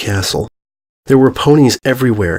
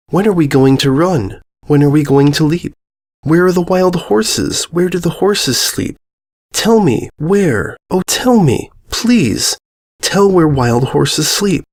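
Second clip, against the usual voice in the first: put-on a young girl's raised, pleading questions; 5 semitones higher than usual. Mia begging the ponies to find wild horses, pleading. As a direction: beg like a child who wants to run free.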